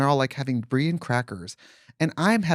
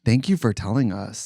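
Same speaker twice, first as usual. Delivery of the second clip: snarky deadpan thanks; 3 semitones lower than usual. Retold or imitated. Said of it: "it came out so cunty".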